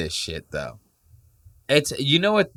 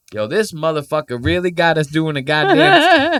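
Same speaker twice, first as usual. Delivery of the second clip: voicing the annoyed guy; 6 semitones higher, 6 dB louder than usual. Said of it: "looking at Bert like".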